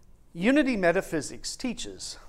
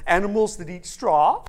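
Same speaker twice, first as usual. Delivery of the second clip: lightly voiced worried straw man; louder, anxious question; Scarecrow; 3 semitones higher, 5 dB louder than usual. Scarecrow asks about straw-eating animals, mildly alarmed. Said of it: "And the Scarecrow says".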